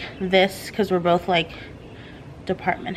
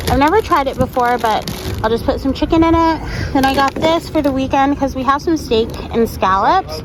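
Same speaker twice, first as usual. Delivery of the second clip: upbeat voiceover; 4 semitones higher, 4 dB louder than usual. Acted. Costco haul voiceover.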